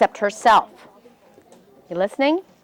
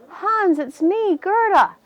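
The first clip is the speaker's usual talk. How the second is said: put-on pleading girl; 8 semitones higher, slower than usual. Girl finds her lost friend.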